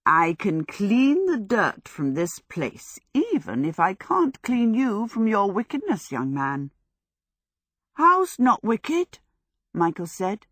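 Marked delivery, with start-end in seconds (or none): 0.1-6.7 pious. Acted. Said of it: "she added piously". 7.9-9.2 indignant protest. Acted. Michael protests in story.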